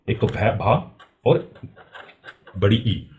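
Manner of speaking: slow syllable-by-syllable split; teacher splitting भाई into parts slowly; slow breakdown. Shown as a demonstration. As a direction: pull भै and भा apart slowly. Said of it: "भाई को हम कैसे तोड़ते हैं?".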